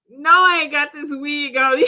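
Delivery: really tickled, talking through laughter. Real, not acted. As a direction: burst out cracking up mid-sentence. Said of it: "that tickled me".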